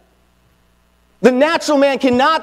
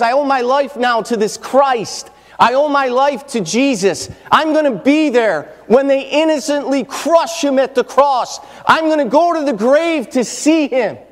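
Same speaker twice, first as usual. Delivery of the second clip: voicing Mary; 4 semitones higher than usual. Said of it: "And she knows".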